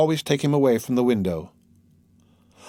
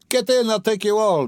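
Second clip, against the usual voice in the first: Mikolka shouting; 9 semitones higher than usual. Acted. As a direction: yell it out, full of bravado. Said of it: "Mikolka shouted again".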